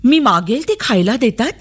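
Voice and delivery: put-on high child's voice, wondering; young girl's bewildered inner voice; puzzled little girl. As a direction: ask innocently why everyone is so sweet. Girl wonders at officials' kindness.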